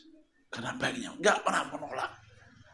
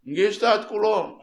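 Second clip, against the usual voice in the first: eager congregant; 9 semitones higher, 6 dB louder than usual. Acted. Congregant eagerly raising hand.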